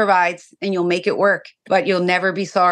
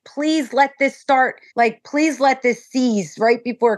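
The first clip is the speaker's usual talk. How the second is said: pleading; 2 semitones higher, slower than usual. Retold or imitated. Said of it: "I was literally like".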